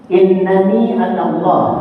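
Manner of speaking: slow Arabic with the "nn" held; Arabic recitation. Shown as a demonstration. Teacher reading an Arabic phrase aloud, slow and careful. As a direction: read "Innani anallah" slowly, stretching the doubled n. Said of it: "Ini biasanya ada tertulis".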